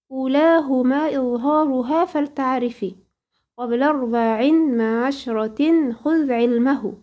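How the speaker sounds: slow, measured chanting of the Tuhfat al-Atfal verses; slow verse recitation. Shown as a demonstration. Teacher reciting the poem slowly to her student, measured chant. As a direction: intone each verse slowly, like a Quran teacher.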